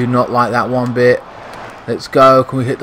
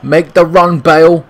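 calling out; 2 semitones higher, 4 dB louder than usual. Real, not acted. Yelling at a player on screen.

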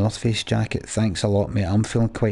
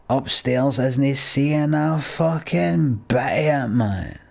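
stoner voice; 2 semitones higher, much slower than usual. Pretend. Playing a greedy stoner.

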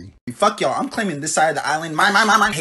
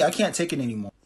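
crying; 2 semitones lower, 4 dB quieter than usual. Acted. Breaking down in despair.

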